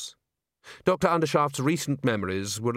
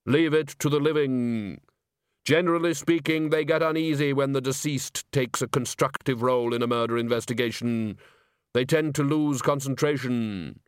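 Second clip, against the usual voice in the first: bass voice. Acted. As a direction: speak as unhurried Death. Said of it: "you do have a very good bass voice".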